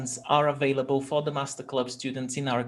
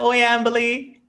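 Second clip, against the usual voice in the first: excited greeting; 8 semitones higher, 4 dB louder than usual. Real, not acted. Greeting a child warmly.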